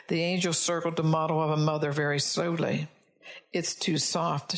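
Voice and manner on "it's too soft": sighed. Acted. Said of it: "she sighed".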